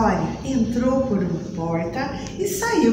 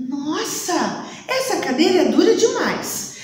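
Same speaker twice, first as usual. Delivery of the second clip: laughing complaint; 6 semitones higher than usual. Acted. Reclama da cadeira dura.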